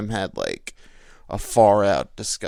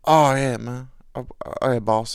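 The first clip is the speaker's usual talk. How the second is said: coworker voice; 3 semitones higher, 4 dB louder than usual. Retold or imitated.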